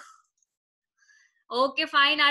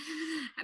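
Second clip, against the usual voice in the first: soft chuckle; 13 dB quieter than usual. Real, not acted. Teacher amused while finding vanished pupil.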